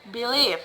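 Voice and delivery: believe with LIEVE stressed; stress on second syllable. Shown as a demonstration. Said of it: "stress in the second".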